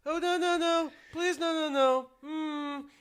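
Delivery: high, loud frantic begging; panicked pleading. Retold or imitated. Pinned dad begging the lioness daughter, panicked and loud. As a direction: beg her to stop in a panic.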